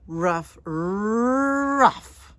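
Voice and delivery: loud playful woof woof; barking dog. Acted. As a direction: bark it out like a little dog.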